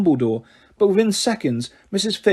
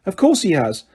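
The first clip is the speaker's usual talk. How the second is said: impatient; 3 semitones higher than usual. Acted. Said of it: "said Missus Figg impatiently".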